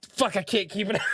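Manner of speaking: laughing through the words; cracking up. Retold or imitated. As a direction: lose the straight face as you say it. Breaking up mid-prank, laughing.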